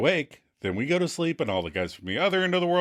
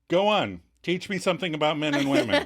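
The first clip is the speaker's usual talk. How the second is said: higher-pitched goading challenge; daring challenge; 4 semitones higher, faster than usual. Retold or imitated. Monica dares Chandler to teach her, daring. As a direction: dare him to explain himself. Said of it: "Monica dares him".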